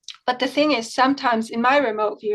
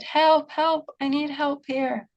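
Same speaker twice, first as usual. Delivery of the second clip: retold mild yell for help; 5 semitones higher, slower than usual. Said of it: "person who will yell at you".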